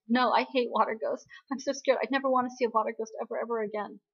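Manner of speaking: mock scared refusal. Recapper voices the scared heroine refusing water ghosts, mildly frightened. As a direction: act out a mild fearful refusal.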